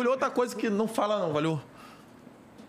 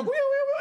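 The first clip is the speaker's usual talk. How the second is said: high wailing siren noise; imitated little siren; 14 semitones higher, slower than usual. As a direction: mimic a little horn, pitched way up. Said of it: "Como que foi a buzininha?".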